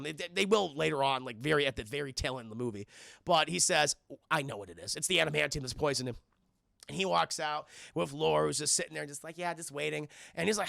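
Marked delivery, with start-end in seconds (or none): 4.3-6.2 gruff low voice. Retold or imitated. Logan's gruff line voiced.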